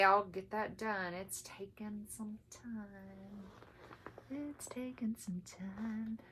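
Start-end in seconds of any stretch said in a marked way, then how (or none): 4.3-6.2 unvoiced whisper echo; whispered repeat. Real, not acted. Stitcher repeating her slow progress, whispered. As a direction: whisper it again as a confession. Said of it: "repeated line".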